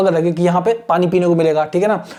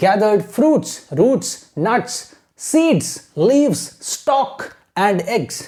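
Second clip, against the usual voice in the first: very slow reading in separated phrases; measured, phrase-by-phrase teacher's reading; model reading with pauses; much slower than usual. Shown as a demonstration. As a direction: read slowly, pausing after each word group for pupils to copy. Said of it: "आपको imitate करना है".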